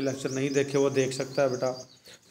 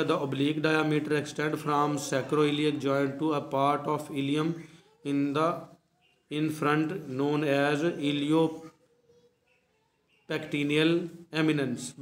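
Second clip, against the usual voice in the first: textbook reading; much slower than usual. Acted. Slowly reads textbook sentence aloud.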